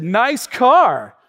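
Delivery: mock snide compliment; a touch of sarcasm on "Nice car"; imitated snide remark. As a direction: say it as if it were a dig. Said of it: "I don't think he said it like that".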